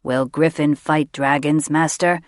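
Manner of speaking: a simple beast asking its master; creature asking. A narrator's reading. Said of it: "Rem asked".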